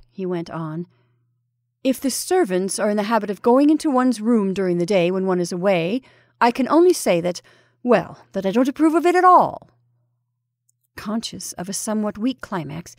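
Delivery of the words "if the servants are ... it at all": lightly voiced fussy guest airing a grievance; mildly indignant Parkins. Parkins complains about the servants.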